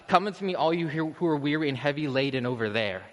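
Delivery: distant summons. Acted. Preacher showing what Christ is not saying, distant summons. Mock version of distant, aloof call.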